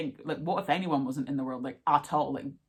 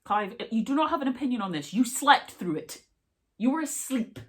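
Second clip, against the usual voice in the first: higher, playful scolding; teasing; 8 semitones higher than usual. Real, not acted. Telling Clive off for sleeping through it, playful. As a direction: tease him as if he should know better.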